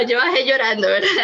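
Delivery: half laughing, half crying; a real teary laugh. Real, not acted. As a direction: laugh at herself through tears. Recalling crying on the way down.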